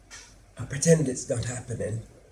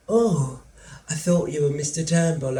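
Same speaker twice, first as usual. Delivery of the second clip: mother's voice; 4 semitones higher, 5 dB louder than usual. Acted.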